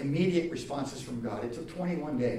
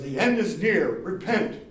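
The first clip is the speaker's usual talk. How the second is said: street preacher's sign; 3 semitones higher, 7 dB louder than usual. Retold or imitated. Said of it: "And it says".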